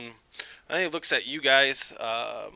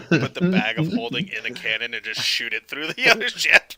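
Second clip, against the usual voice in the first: laughing; 3 semitones higher, 7 dB louder than usual. Real, not acted. Laughing through suggestion.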